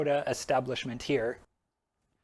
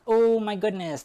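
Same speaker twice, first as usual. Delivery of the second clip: mock gasp; 8 semitones higher, 5 dB louder than usual. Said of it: "And everyone is like".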